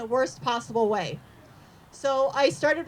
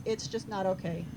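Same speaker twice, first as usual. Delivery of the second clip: preschool teacher voice; 6 semitones lower, 6 dB quieter than usual. Retold or imitated. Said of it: "As I would tell my preschoolers".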